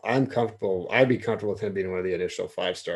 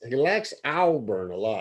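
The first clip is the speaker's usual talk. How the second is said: Southern accent; 2 semitones higher than usual. Shown as a demonstration.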